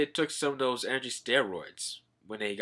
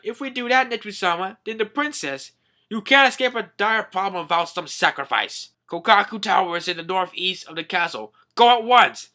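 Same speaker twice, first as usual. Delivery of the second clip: high urgent official voice; high minister voice; 7 semitones higher, 5 dB louder than usual. Retold or imitated.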